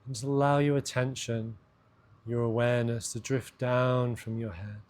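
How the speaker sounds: measured meditation voice with long pauses; guided meditation. Acted. Host guiding listeners' awareness down into the body, guided meditation. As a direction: let each phrase settle before the next.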